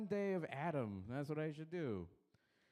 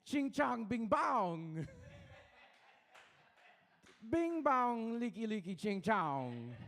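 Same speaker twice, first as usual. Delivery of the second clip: slow, higher mock Asian accent chant; 6 semitones higher, slower than usual. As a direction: stretch out a crude Asian accent, a bit higher.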